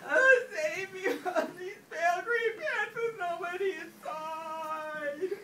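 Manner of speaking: hammed-up frightened plea, half laughing; mock pleading cry. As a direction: beg to be saved in playful mock terror. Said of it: "I yelled, I cried".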